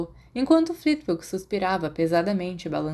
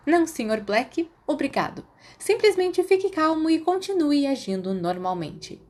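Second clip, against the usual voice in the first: stern teacher; 9 semitones higher than usual. Acted. Professor answers Sirius.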